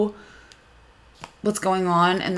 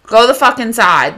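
angry; 4 dB louder than usual. Retold or imitated. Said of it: "I'm like".

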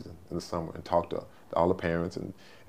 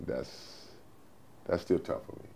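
emotional; 7 dB quieter, slower than usual. Real, not acted. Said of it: "I still get emotional about it".

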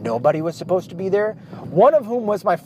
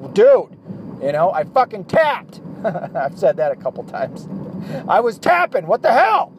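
loud and high, fed up at being choked; half-laughing protest, louder and higher; exasperated yell; 5 semitones higher, 4 dB louder than usual. Retold or imitated. Father tapping out under his son's choke, exasperated yell.

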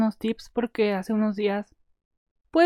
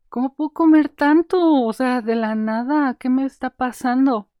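baffled at herself; 3 semitones higher, 6 dB louder than usual. Retold or imitated. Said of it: "Porque decía".

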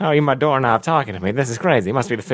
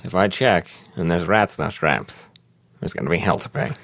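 understated menace from the boss; a hint of a stern boss; 5 semitones lower than usual. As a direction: warn her in a low grumble. Richard threatens assistant.

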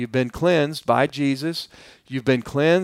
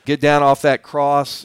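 lightly acted taunt, pushed a little louder; mocking; 4 dB louder than usual. Criminal taunting Jesus on the cross, mildly mocking. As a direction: imitate a heckler's jeering demands. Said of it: "He's mocking him is what he's doing".

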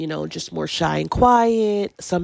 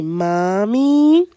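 put-on coaxing baby; 3 semitones higher, 3 dB louder than usual. Shown as a demonstration. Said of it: "You say".

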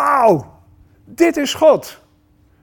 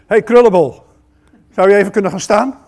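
called out; 2 semitones higher, 6 dB louder, faster than usual. Acted. Calling out to a congregant.

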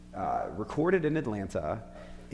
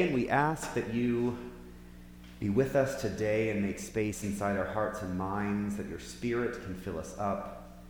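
prayer. Acted. Leads an opening prayer.

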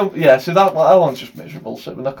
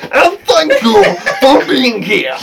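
Kermit-ish sign-off; 10 semitones higher, 5 dB louder than usual. Acted.

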